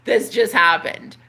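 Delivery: slow, drawn-out stunned disbelief. Retold or imitated. Seeing the pile of groceries, slow stunned disbelief. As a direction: stretch each word in amazement. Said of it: "I was like".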